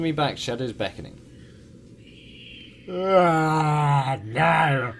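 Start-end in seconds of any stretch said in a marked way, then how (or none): 2.9-4.9 high, loud wail of protest; mock panicked scream. Player playing at fleeing the mansion's whispers, mock panicked scream. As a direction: cry out in hammed-up panic.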